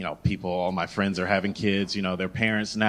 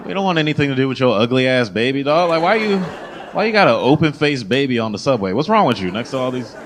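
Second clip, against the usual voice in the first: loud, raised New Yorker rant; mock exasperated scolding; 3 semitones higher, 5 dB louder than usual. New Yorker berating a parent on the subway, comic exasperation.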